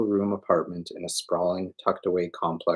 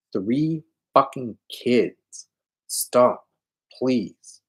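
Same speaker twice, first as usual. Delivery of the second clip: crying; 6 semitones higher, 4 dB louder, much slower than usual. Acted. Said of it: "And now I'm crying".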